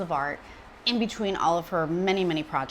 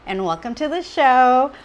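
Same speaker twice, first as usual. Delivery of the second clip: excited welcome; 4 semitones higher, 7 dB louder than usual. Real, not acted. Host introducing her guest.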